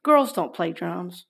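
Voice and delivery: mocking inner critic; taunting inner voice; ego voice. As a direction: scold yourself like a nagging ego. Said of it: "the ego says".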